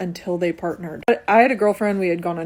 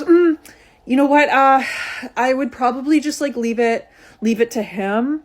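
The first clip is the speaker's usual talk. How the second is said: hesitant friend; 4 semitones higher than usual. Retold or imitated. Friend dodges her plea for food, hedging and higher. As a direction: stall and hedge, pitched up.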